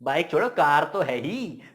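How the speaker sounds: drawn-out, cocky insistence; swaggering boast. Acted. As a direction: stretch the words out and let them swoop down. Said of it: "वो चौड़ में हो गया".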